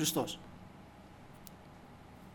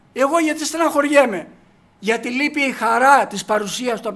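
higher and louder, proclaiming each line; fervent preaching; 3 semitones higher, 5 dB louder than usual. Acted. Preacher calls out to his brothers and sisters, fervent and loud. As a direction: lift the voice to the glory of God.

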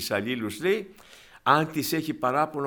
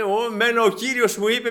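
self-righteous claim; 8 semitones higher, 3 dB louder than usual. Retold or imitated. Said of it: "της μιλάγανε".

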